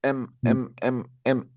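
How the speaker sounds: "M" repeated in separate voiced hums; sound of M. Shown as a demonstration. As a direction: say "M" as a short humming em. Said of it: "de la M".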